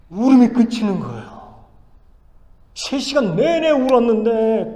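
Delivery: high-pitched, emphatic testimony; impassioned preaching. Real, not acted. Preacher telling how the child stopped crying, impassioned. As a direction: build the amazement as you testify.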